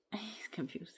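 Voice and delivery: soft whisper about the pet. Real, not acted. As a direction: whisper it so he won't hear. Whispered aside.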